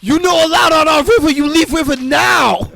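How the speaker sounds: high, loud, indignant mock Asian accent; shouted broken-English Asian accent. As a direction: scold trespassers in a hammed-up Asian accent. Acted angry accented film character.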